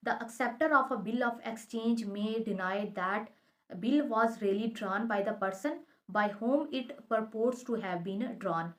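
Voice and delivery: slow, deliberate legal text reading; reading the statute. Shown as a demonstration. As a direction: read each clause out slowly and carefully. Reads statute text aloud.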